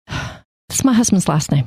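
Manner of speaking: sighing, slow and tired of explaining; sigh, then drag it out like the hundredth time; weary sigh. Retold or imitated. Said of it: "that's the second time somebody's asked me".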